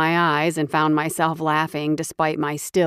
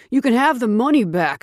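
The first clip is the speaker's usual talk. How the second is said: higher, louder terrified begging; shrieking, pleading; 5 semitones higher, 5 dB louder than usual. Acted. Cowering thief begs the bear shifter for mercy, shrieking. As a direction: plead for your life, voice up high. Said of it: "Shrieking and yelping".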